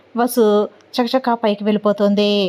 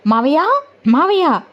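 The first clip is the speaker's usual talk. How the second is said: mildly raised calls for uncle and aunt; calling out loudly; 6 semitones higher, faster than usual. Acted. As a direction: call out to the house, only a little raised. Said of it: "అని గట్టిగా అరుస్తూ".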